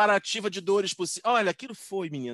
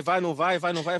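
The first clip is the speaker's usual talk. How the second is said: ordinary talk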